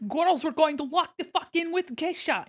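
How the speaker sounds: rally the girls in a hammed-up Gru accent; Gru impression. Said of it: "I just think of Gru from Despicable Me".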